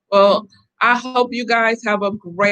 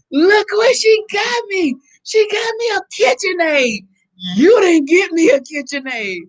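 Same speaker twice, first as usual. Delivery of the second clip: excited screaming; 10 semitones higher, 3 dB louder than usual. Retold or imitated. Excited wife showing her husband the new KitchenAid, mock screaming. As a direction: re-enact showing off a gift, high and thrilled. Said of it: "saw me jumping and screaming in the street".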